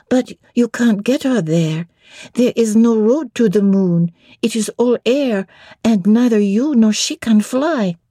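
put-on high child voice asking in French; little French girl. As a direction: ask it like an eager little girl. Adele argues.

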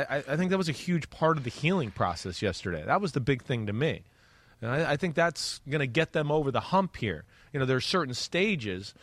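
ordinary talk, nothing marked

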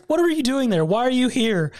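imitating a startled shout; startled question. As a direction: act caught off guard by the slime. Mam startled by Gome.

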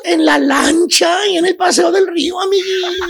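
a lightly voiced wistful chuntara, sighing over old photos; gossipy friend voice. Chuntara telling her friend about the ex, lightly sighing. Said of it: "le dice la chuntara a la amiga".

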